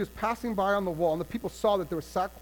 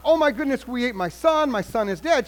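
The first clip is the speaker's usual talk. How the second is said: mock grieving mother; 4 semitones higher, 5 dB louder than usual. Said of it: "the lady's not".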